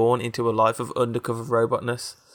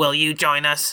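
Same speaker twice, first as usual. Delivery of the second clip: robotic, machine-like voice; 4 semitones higher than usual. Telling a story, voice the question asked from inside the room in a robotic voice. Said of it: "a robotic voice asked".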